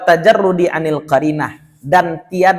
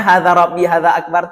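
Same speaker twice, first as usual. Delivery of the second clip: higher, louder sarcastic quote; 4 semitones higher, 6 dB louder than usual. Shown as a demonstration. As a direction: say it as pointed sarcasm, pitched up. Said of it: "Cara ngomongnya tuh".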